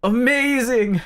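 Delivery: high, drawn-out acted awe; amazed delight. Narrator tastes the chicken, high amazed delight. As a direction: burst out high with wonder. Acting delight at first bite.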